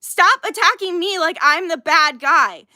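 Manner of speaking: real frustrated protest; angry yelling. Real, not acted. Streamer telling critics to stop attacking, angry yelling. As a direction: push back hard, fed up. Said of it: "I am sorry I am yelling".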